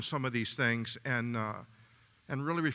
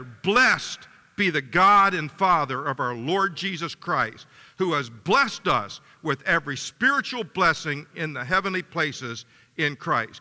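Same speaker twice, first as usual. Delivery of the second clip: many voices in unison; 4 dB louder than usual. Real, not acted. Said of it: "Let's read it together".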